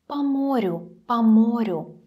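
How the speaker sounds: "по морю" with по as "pa". Shown as a demonstration. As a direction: open a in по of "по морю". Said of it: "You hear how I'm pronounce it".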